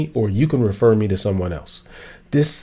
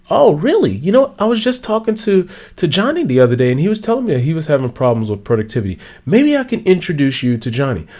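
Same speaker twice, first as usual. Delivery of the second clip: eager helper; 4 semitones higher than usual. Retold or imitated.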